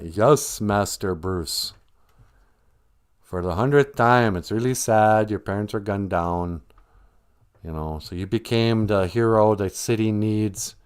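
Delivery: mildly weary, dutiful recital; lightly voiced butler humoring his master; fed-up butler. Alfred answers Master Bruce's oft-told story, mildly fed up. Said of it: "Alfred by this time is sick of hearing it".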